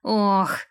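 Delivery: mild pained groan. A narrator's reading. Man pinned under double weight, groaning mildly. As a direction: let out a restrained, pressed-down "oh". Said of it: "простонал Дерек".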